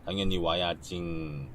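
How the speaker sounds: slow, sing-song cutesy voice; slow cutesy reading with trailing endings; cutesy slow talk. Acted. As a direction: drag out the endings cutely. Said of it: "내가 정말 싫어하는 말투인데".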